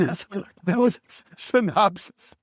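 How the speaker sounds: very high, raspy Italian grandpa with a laugh; Pepe's raspy Italian voice. Retold or imitated. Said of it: "He's got this Italian raspy voice".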